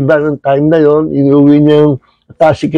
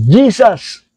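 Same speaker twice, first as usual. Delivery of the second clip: mild mock shout; 4 semitones higher than usual. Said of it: "Nung sumigaw siyang".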